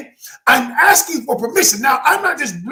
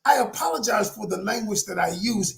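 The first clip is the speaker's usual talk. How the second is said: right way to apologize; 3 semitones lower, 7 dB quieter than usual. Shown as a demonstration. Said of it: "Specifically, you identify the thing".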